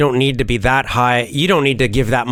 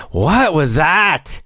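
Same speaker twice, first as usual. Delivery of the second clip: teacher jokingly demanding more energy; funny coaxing; 5 semitones higher than usual. Shown as a demonstration. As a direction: tease them into more energy. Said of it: "I always do it in a funny way".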